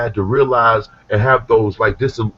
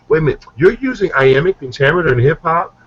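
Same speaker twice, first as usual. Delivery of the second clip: higher imitated voice, taken aback; intrigued disbelief; 6 semitones higher than usual. Woman questioning rapper about iambic pentameter, higher intrigued disbelief. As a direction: play her halting him in surprise.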